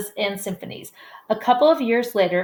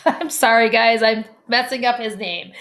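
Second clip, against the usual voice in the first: laughing apology; 4 semitones higher, 5 dB louder than usual. Real, not acted. Fumbles name, laughs while apologizing.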